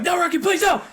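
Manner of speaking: high, loud mock plea; playful fake panic; mock pleading. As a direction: beg the dog to stop, hammed up. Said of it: "I'm like".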